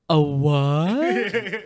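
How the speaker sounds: drawn-out, baffled Boston question; incredulous Boston-accented query; Boston townie. Retold or imitated. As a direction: pitch it up, baffled Boston local. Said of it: "the guy just turns and is like".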